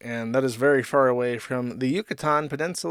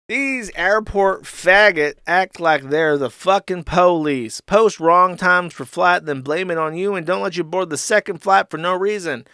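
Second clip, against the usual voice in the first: mock angry rant; 4 semitones higher, 4 dB louder than usual. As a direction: read the tweet like an outraged drunk. Reading Ralph's angry tweet.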